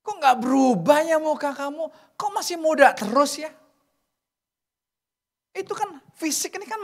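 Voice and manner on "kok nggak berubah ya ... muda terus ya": admiring friend. Retold or imitated. Old friend admiring your face.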